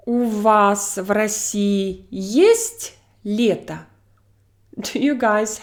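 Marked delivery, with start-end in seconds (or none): 0.1-3.9 slow, есть raised in the question; question stress on есть. Shown as a demonstration. Teacher asks learners, stress on есть. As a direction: lift есть to make it a question. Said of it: "my logical emphasis here is".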